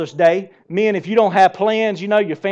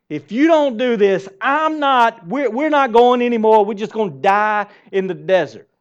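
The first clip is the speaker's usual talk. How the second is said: whiny threat; 4 semitones higher, 4 dB louder than usual. Retold or imitated. Israel threatening God in desert.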